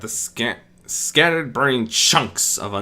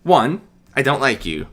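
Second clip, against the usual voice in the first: blunt; 5 semitones higher, 6 dB louder than usual. Acted. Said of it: "Medea stated bluntly".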